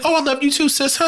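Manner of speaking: very high, sarcastic sing-song; mock sweet reply. Killer answers her sister, very high sarcastic sweetness. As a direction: coo it before pulling the trigger.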